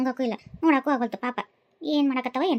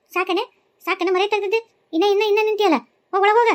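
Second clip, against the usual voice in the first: angry order; 5 semitones higher than usual. Acted. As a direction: drive her back inside. Ordering girl back inside.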